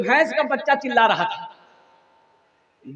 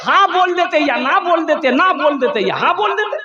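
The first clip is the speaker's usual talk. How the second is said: a mock-exasperated mother, higher; mother scolding; 6 semitones higher than usual. Mother scolding her son for staying silent, mock-exasperated. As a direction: scold him like a fed-up mother. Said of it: "बोला".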